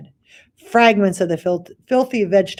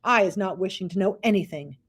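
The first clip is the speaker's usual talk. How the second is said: dignified; 3 dB quieter, faster than usual. Acted. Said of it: "very dignified".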